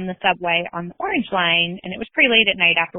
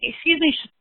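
mock panic; 3 semitones higher than usual. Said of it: "my friend Stephanie panicked".

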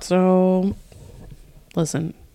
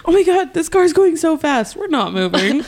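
stoner; 7 semitones higher than usual. Pretend. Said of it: "I'm high right now".

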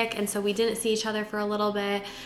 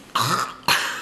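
choking cough; 10 semitones lower than usual. Real, not acted. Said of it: "I keep choking".

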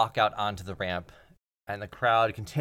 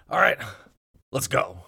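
hyped up; 4 semitones higher, 5 dB louder than usual. Acted. Wrestler psyching up before match.

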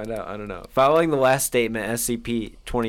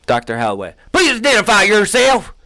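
loud, high demanding call; hammed-up commanding researcher; stern interviewer call; 9 semitones higher, 11 dB louder than usual. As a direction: bark the order across the room. Reading interviewer role aloud.

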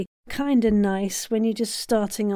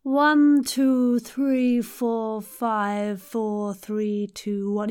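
open throat; much slower than usual. Shown as a demonstration. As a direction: open the throat right up and count. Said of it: "open up that throat".

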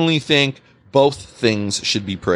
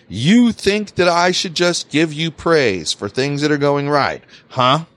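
mock sarcastic boss. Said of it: "And that's how he said it, too".

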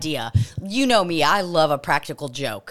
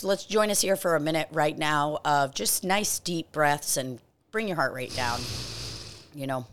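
guided breathing; 4 semitones lower than usual. Real, not acted. Host leading a one-minute breathing session, calm guidance. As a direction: ease listeners down with a low, settling voice.

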